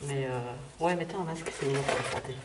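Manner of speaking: muffled behind a gas mask; through a gas mask. Real, not acted. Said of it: "je mets le masque". (étouffé derrière un masque à gaz)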